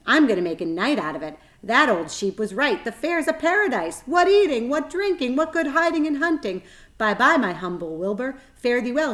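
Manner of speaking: high, loud gloating; gleeful rat. A narrator's reading. Rat boasts to spider and pig, loud and gleeful. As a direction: crow about the feast ahead.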